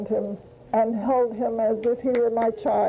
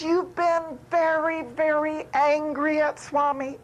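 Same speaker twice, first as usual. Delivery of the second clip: higher, mock accusing tone; teasing; 5 semitones higher than usual. Swami teasing his devotee about her anger, playfully accusing. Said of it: "Swami teased me".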